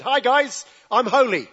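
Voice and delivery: a hint of an awkward coworker announcing it; mock workplace announcer, lightly voiced; mock cheery greeting. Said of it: "went to your work tomorrow and said".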